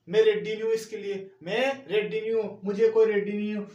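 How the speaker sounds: loud, insistent refusal; loud protest. Acted. Teacher playing a fussy eater refusing, loud protest.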